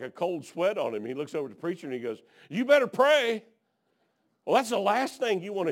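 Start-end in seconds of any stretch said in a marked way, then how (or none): 2.5-3.4 grim warning. Retold or imitated. Pilot warns preacher on plane.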